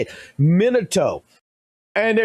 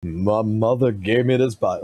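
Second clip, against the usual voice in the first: Guy Sensei voice; 6 semitones lower than usual. Retold or imitated. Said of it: "I could do the Guy Sensei voice".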